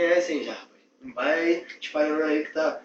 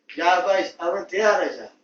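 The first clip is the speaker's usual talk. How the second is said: bossy shout; 2 semitones higher, 7 dB louder than usual. Acted. Boss shouting for the flashlight.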